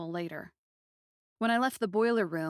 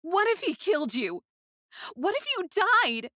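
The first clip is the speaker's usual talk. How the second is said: much higher and louder panic; frantic cry; 11 semitones higher, 6 dB louder than usual. Acted. Girl panicking that her little friend could have died, crying out. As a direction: plead in fear for his life. Aiko frightened for Rain.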